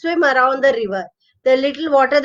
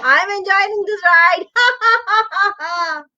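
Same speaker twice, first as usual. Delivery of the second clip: high mocking cackle of a toad; toad laughing; 6 semitones higher than usual. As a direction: gloat while laughing. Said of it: "he would laugh".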